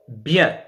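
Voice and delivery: "bien" ending nasal, n silent; nasal vowel. Shown as a demonstration. Teacher giving nasal example, "bien" on a nasal vowel. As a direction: sound "bien" with no consonant n. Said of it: "la voyelle devient nasale".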